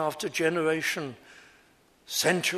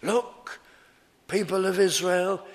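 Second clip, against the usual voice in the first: raised, pleading call to the crowd; preacher voicing Paul, rising to a cry; urgent call; 4 semitones higher, 3 dB louder than usual. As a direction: call out to Israel, higher and louder. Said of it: "And his great emphasis is".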